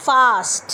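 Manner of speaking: ফাস্ট said with a crisp f; slow clear ফাস্ট, f firmly; fast demo. Shown as a demonstration. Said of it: "first ওয়ার্ডটা হচ্ছে". (ফ স্পষ্ট করে ফাস্ট)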